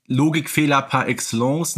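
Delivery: ordinary delivery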